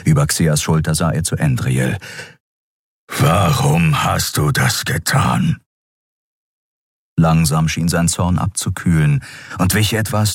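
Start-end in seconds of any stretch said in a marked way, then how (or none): 3.1-5.6 slow, lightly gruff question from a beast; lightly voiced beast. A narrator's reading. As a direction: ask with lingering anger. Kero asks Andriel. (langsam, leicht knurrend)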